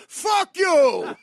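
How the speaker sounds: high, loud sudden yell; mock Kinison scream. Polite chat snapping into a Kinison scream. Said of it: "Sam Kinison routine".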